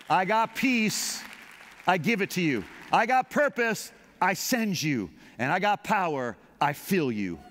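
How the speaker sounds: lightly voiced God offering gifts; God speaking. God telling the believer his gifts, lightly voiced. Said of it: "and said".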